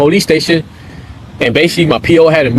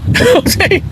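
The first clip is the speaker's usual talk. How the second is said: laughing. Real, not acted. Laughing after the story.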